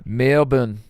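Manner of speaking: Aussie-style place name; amateur Australian accent. Shown as a demonstration. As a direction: swallow the second syllable like an Australian. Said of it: "can you do an Australian accent".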